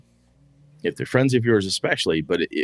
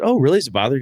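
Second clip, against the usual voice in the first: surprised; 5 semitones higher, 3 dB louder, much faster than usual. Retold or imitated. Friend surprised at being asked to stop.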